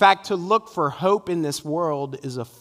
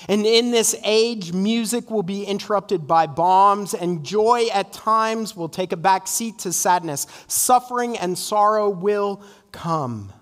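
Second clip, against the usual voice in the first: impassioned preaching; 4 semitones higher than usual. Real, not acted. Preaches with force.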